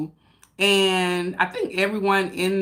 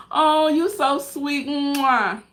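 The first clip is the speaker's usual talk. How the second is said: touched thanks; 6 semitones higher, much slower than usual. Real, not acted. Thanking viewer warmly.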